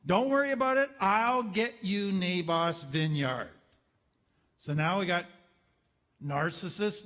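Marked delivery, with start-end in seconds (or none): 0.1-3.5 tough mom. Retold or imitated. Queen taking over for her pouting husband, tough mom voice. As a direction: lightly play a tough mom taking charge. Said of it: "acting like a tough mom".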